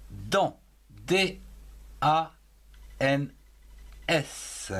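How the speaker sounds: Dans spelled letter by letter, D A N S; spelling out. Shown as a demonstration. Teacher spelling Dans aloud to children. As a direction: spell Dans slowly for the class. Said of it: "on commence la phrase".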